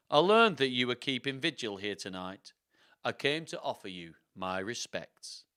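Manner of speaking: lightly performed Yorkshire narrator-villain; measured line in a Yorkshire accent; a touch of courtly Yorkshire. Acted. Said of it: "going from Swedish to Yorkshire is tricky".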